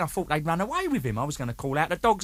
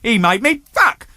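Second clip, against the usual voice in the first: mock indignation; 3 semitones higher, 6 dB louder than usual. Retold argument with bandmate.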